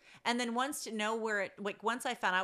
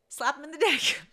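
shouting; 6 semitones higher, 6 dB louder than usual. Real, not acted. Emphatic shouted advice, laughing.

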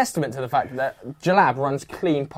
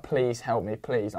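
pleading near tears; 5 semitones lower, 7 dB quieter, slower than usual. Retold or imitated. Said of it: "basically in tears".

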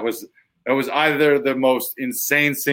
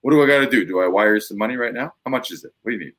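mock eager customer; faster than usual. Overeager customer begging for cleaning.

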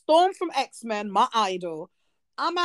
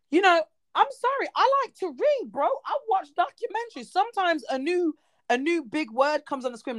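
exasperated defence; 6 semitones higher than usual. Real, not acted. Defending her eloquence, exasperated.

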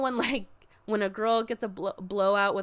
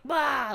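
mock explosive bah; 5 semitones higher than usual. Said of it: "Like, explodes".

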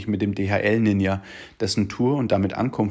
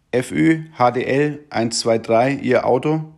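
Polizistin fragt; 3 semitones higher, 4 dB louder than usual. Retold or imitated. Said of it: "Erkundigt sie sich".

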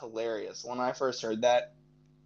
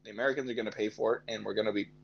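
put-on jokey Mexican accent, lower and partly fast; a lightly put-on Mexican accent for laughs; mock Mexican accent; 3 semitones lower than usual. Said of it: "Flawless Mexican accent".

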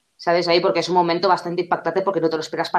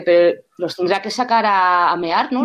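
imitating dad; slower than usual. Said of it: "Me dice".

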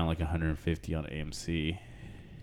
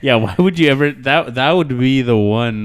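laughing; 7 semitones higher, 13 dB louder than usual. Real, not acted. Laughing loud reaction.

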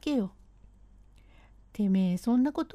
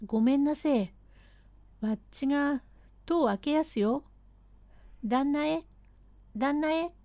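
higher, nervous calling voice; 4 semitones higher than usual. Acted. Servant announces himself to his master, higher voice. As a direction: call the master while opening the door. Tomozo calls before entering.

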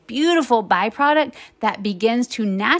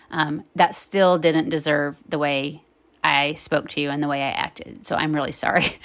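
calm, measured, lowered voice; sincere apology; 3 semitones lower than usual. Retold or imitated. Mom apologizing to her son in the car, sincere. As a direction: own up gently, sinking lower toward the end.

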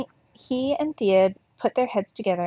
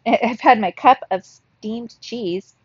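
laughing; 6 dB louder, slower than usual. Real, not acted. Laughs at own slip.

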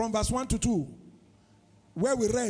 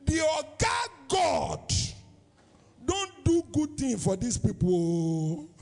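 slow, lightly voiced Pidgin proclamation by the nations; nations' voice; 4 semitones higher, slower than usual. Other nations marvelling aloud, a lightly voiced Pidgin proclamation. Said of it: "The other nations come say".

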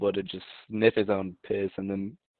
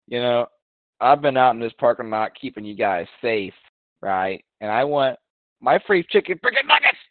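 demanding customer, climbing into a yell on nuggets; entitled Karen; 4 dB louder than usual. Retold or imitated. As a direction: play the entitled Karen who wants her free food. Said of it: "Just imagine she's like a Karen".

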